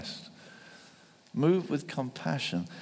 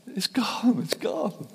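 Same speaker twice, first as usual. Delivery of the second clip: high, breathy whispered gasp; hushed amazement; 12 semitones higher, slower than usual. Retold or imitated. Healed woman whispering to herself, high awed whisper. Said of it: "didn't get a laugh or cry".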